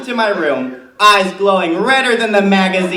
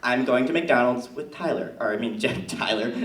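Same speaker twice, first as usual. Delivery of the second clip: Tammy Kirscher character. Acted. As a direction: play a chatty suburban mom comic. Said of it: "please give it up for Tammy Kirscher".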